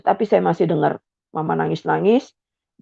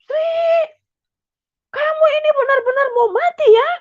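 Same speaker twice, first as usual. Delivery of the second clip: angry father yelling. Retold or imitated. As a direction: scream at her as the enraged father. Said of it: "Dia bilang begitu". (bentakan ayah yang murka)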